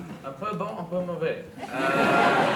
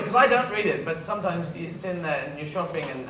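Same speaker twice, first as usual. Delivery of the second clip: ordinary talk, nothing marked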